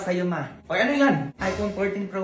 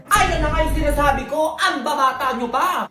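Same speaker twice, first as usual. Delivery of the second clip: scolding shout; 5 semitones higher than usual. Acted. Mother scolding young couple.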